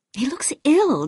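hushed gossip whisper. Acted. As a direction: whisper it behind your hand. Gossiping about a guest nearby.

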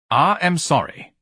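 sniffy, drawn-out snort. A narrator's reading. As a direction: scoff as you refuse. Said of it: "Ignatius snorted".

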